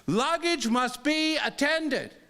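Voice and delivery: imitated stickler guard, drawn out; insistent guard. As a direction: recite the rule slowly at a protester. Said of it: "He keeps saying".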